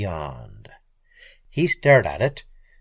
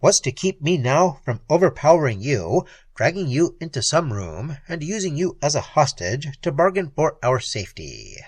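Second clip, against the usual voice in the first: defiant. Acted. Keen threatens.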